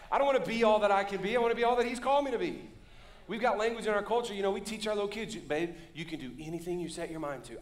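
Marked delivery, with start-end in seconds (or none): 5.3-7.6 softer, lightly voiced parent to child; encouraging parent. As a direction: gently coax a little kid, dropping the preaching force. Parent voiced to little kids.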